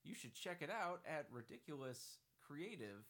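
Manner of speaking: lightly voiced upbeat Steve Gordon; Steve Gordon impression. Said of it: "my legitimate Steve Gordon impression".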